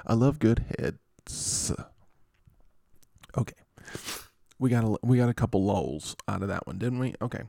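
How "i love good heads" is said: slow, with the s of "heads" split off after a pause; comic pause. Shown as a demonstration. Host repeating the joke, late s on "heads". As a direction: stop after head, then finish "heads" with a late s. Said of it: "funnier if you say it like that".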